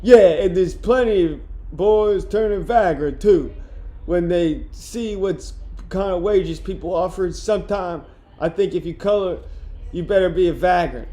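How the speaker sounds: witty retort with a hint of Boston; Boston accent attempt. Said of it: "get back to the boss".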